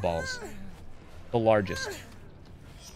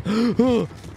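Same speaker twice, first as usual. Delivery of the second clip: mock gasp; 6 semitones higher than usual. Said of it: "I'm just kidding, dude".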